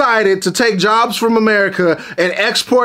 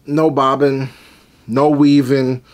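deep mock voice; 9 semitones lower, slower than usual. Mocking the fighter's failed defence.

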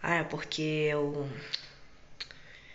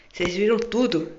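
alarmed; 4 semitones higher, 9 dB louder than usual. Acted. Caught, alarmed.

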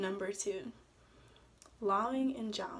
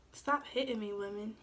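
mild angry yell. Acted. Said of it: "he yelled angrily".

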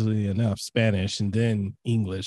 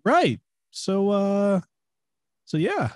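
bored reply; 8 semitones higher, slower than usual. Retold or imitated. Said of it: "people that have no energy".

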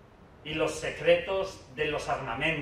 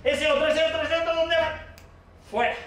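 very high, frantic calling out; playground bouncer; 11 semitones higher than usual. Acted. Speaker spots another running child to expel, high frantic calling. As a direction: chase down another runner with your voice. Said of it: "Te pones ahí en una esquina y dices".

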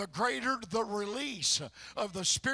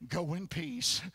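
Jesus forgiving; 5 semitones lower, slower than usual. Retold or imitated. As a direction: speak absolution gently. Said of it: "Jesus turned and looked at that woman and said".

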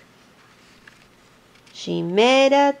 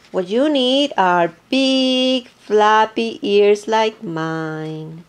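slow elephant voice; 3 dB louder, much slower than usual. Acted. Elephant boasts of his ears.

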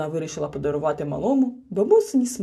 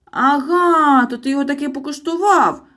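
louder, higher accusing bark; snapping; 8 semitones higher, 8 dB louder than usual. A narrator's reading. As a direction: catch him out with a snap. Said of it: "гаркнув Мітроль". (сердите гаркання)

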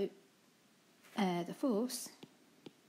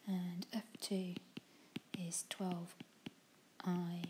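whispering; 6 dB quieter, slower than usual. Real, not acted. Muttering while writing.

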